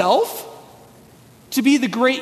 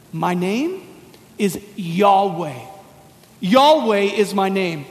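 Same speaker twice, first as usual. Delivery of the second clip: solemn voice of God; 4 semitones lower, slower than usual. Retold or imitated. God speaking to Moses.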